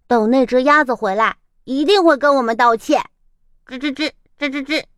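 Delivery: 快而嘟囔地抱怨; 气鼓鼓地咕哝; grumbling. Acted. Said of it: "它们咕哝着". (松鼠咕哝着等鸭子道歉)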